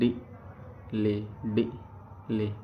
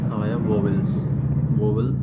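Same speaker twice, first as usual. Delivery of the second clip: louder, booming call-out of a new topic; loud announcement; 9 dB louder than usual. Acted. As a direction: announce the next topic to the class. Announcing new lesson section.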